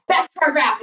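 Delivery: winded after pounding the floor; out of breath. Real, not acted. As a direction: talk while catching your breath. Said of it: "I'm out of breath".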